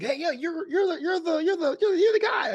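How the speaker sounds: stumbling, rising excitement of recognising someone; excited recognition. Retold or imitated. Fan recognising him, retold.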